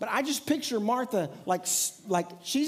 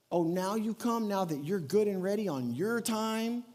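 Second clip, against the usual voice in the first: sarcastic. Retold or imitated. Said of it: "Maybe sarcastic".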